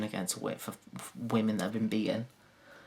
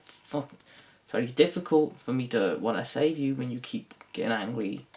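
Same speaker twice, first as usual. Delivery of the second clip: normal talking voice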